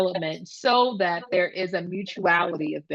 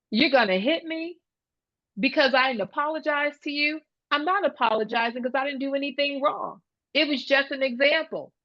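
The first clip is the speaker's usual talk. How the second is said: put-on higher-pitched, coolly reasoning kid; calm child; 6 semitones higher, faster than usual. Kid questions a threat of being hit, calmly defiant. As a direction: lightly imitate an unruffled child standing his ground. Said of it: "sits back in his chair very calmly".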